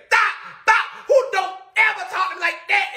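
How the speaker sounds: put-on a light take on a dad telling his kid off; imitating the father. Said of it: "And he just said".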